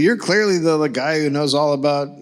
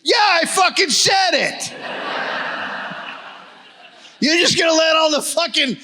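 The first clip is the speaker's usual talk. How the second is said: put-on Boston accent; 11 semitones higher than usual. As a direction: rant like a Boston guy on Fox News. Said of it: "Why are you doing a Boston accent".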